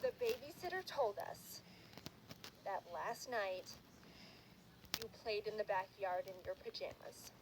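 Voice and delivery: slow, soft parental accusation; low, halting stern parent; grave parents. Retold or imitated. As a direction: lay out the charge gravely. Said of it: "they were like".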